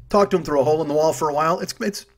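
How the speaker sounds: talking through hiccups; hiccuping. Real, not acted. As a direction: speak with hiccups breaking in. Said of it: "I'm hiccuping".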